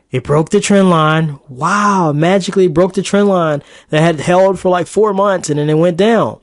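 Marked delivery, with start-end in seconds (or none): 1.5-6.4 sarcastic. Acted. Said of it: "I'm being facetious and sarcastic".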